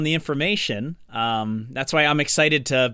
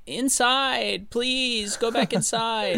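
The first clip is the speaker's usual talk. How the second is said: mild mock yell; 6 semitones higher, slower than usual. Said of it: "they yell".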